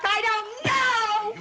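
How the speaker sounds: put-on terrified girl denying she started fires, voice rising; rising panicked denial. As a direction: pitch climbing into a desperate high cry. Accused girl cries out denial.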